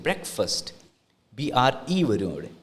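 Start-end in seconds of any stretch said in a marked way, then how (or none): 0.1-0.7 breakfast as brek-fest; brek-fest, short e in both; correct pronunciation. Shown as a demonstration. Teacher modelling breakfast for students. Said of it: "becomes F E S T".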